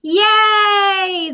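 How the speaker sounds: very high squeal of joy; cheering yay. Acted. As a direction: squeal with glee. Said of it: "the crowd cheered".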